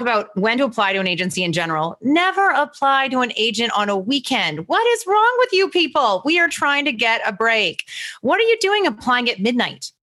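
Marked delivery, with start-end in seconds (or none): 2.0-9.9 exasperated rant. Real, not acted. Host rants at night applicants.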